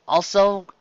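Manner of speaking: breathy aside whisper. Acted. Host whispering an aside to viewers, secret whisper. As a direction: lean in and whisper it. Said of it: "unvoiced whisper".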